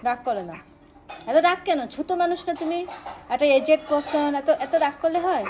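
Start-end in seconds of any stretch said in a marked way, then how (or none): 1.3-5.4 loud, teasing scold of a sulky pet; mock scolding. Real, not acted. Owner loudly chiding her sulking pet, playful scold.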